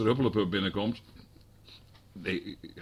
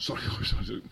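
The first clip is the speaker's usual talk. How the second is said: whispered apology; 6 dB quieter, much faster than usual. Real, not acted. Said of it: "dat niet als grapje".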